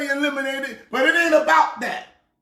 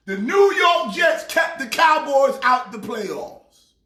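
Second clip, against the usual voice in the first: excited cheering; 3 semitones higher, slower than usual. Real, not acted. Cheering his team.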